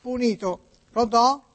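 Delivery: put-on Italian spoken with an American accent; high-pitched American notary on the phone. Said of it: "come parla Niculo? ... oggi americani".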